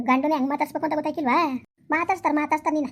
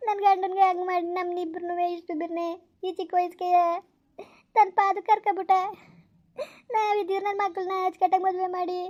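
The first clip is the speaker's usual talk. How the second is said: tearful lament. Acted. Acted weeping over husband and children.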